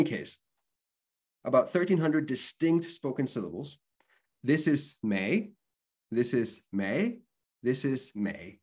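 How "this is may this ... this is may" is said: English-Spanish accented Mandarin syllable; slow demo in broken, accented Chinese. Shown as a demonstration. Teacher showing identical Chinese syllables, in accented Chinese. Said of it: "my broken English, Spanish, accented Chinese".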